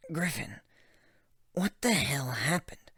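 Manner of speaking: whispered, urgent concern; hushed worried question. Acted. Gilda whispering to shaken Griffin, worried hush. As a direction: breathe the question under your voice.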